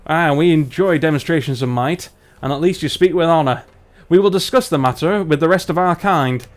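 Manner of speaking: put-on lightly done northern English accent; Barnsley dwarf. Dwarf agrees to a test of might, light Barnsley accent. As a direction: pronounce it as a Barnsley dwarf elder. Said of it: "let's do our dwarves from Barnsley".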